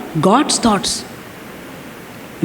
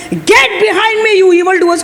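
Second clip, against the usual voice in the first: defiant rebuke; 4 semitones higher than usual. Retold or imitated. Preacher retells David turning on his evildoers, defiant rebuke. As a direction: act out driving enemies away. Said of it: "And then finally he says".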